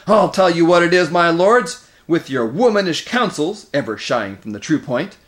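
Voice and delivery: loud, high angry tirade easing at the end; indignant roar that eases off. A narrator's reading. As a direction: lash out at the lords, loudly. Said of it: "roared Moraz".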